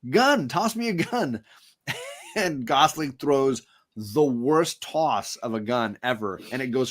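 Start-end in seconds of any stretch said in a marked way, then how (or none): 0.1-1.4 1 quoting Russell Crowe. Retold or imitated. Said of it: "Russell Crowe says".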